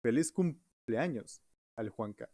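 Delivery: slow, even robot voice. Pretend. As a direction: talk like a machine, slowly. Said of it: "con voz robótica".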